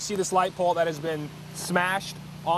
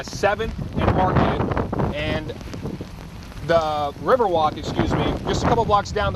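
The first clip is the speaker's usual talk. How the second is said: shouting over wind; 3 dB louder than usual. Real, not acted. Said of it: "you can hear that wind really whipping around".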